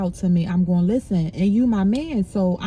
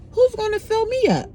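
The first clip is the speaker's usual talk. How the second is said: pleading cry; 10 semitones higher than usual. Real, not acted. Emotional peak of her plea.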